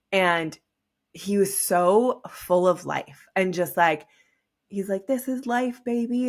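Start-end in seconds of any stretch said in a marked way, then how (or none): 5.1-6.3 excited. Retold or imitated. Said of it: "so happy and excited and".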